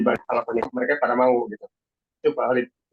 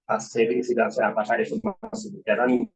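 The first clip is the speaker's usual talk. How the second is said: choppy dropping connection; glitching audio. Real, not acted. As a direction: voice cutting in and out. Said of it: "suaranya agak timbul tenggelam".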